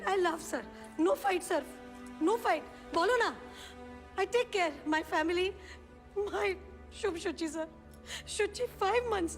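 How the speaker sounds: broken, begging the judge in halting English; desperate pleading. Acted. Mother begging the judge to return her children, desperate. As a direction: plead for your children as if your life depends on it.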